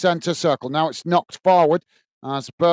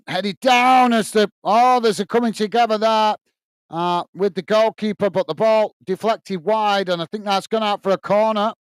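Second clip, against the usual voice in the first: excited commentary; 4 semitones higher than usual. Real, not acted. Goalmouth scramble in live commentary.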